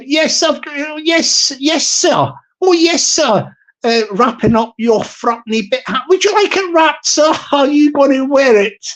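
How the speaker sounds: a hint of an eager Glasgow shop assistant; shop worker voice. Shop server flattering the wee guy's hat, lightly put-on eager voice.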